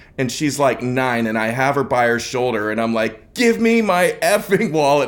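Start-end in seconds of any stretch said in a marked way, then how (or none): 3.4-5.1 angry, furious, high-pitched screaming. Retelling grabbing a nine-year-old by the shoulder: retelling screaming at someone. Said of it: "I'm screaming at her".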